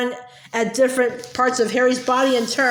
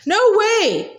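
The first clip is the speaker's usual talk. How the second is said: high, sharp No way; yell; 8 semitones higher than usual. A narrator's reading. Harry yelling back at Hermione, defiant high yell. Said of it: "yelled Harry".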